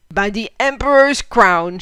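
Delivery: loud German exclamation; shouted. Acted. Fritz hears Lena's tale, shouting. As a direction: burst out in amazement. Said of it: "shouted Fritz".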